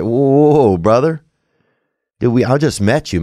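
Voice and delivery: retold startled "hold on" protest; taken-aback protest. Podcaster replaying his reply to a woman's dad, mock taken aback.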